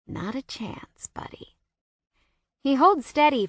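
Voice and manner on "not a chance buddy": whispered. A narrator's reading. Silent reply across cafeteria.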